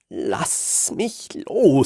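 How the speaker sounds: slow, firm demand. Acted. Hans demanding the tentacle man release him. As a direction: insist on being let go. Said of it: "verlange ich".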